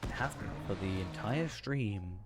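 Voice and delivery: talking while pedalling; slightly breathless from cycling; cycling hard. Real, not acted. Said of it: "I'm cycling right now".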